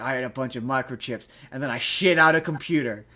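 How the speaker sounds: lightly voiced Statham, barely off his own voice; a half-hearted go at a tough-guy voice; Jason Statham impression. Podcaster quoting Jason Statham's outtake lines, lightly voiced. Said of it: "I can't do a Jason Statham impression".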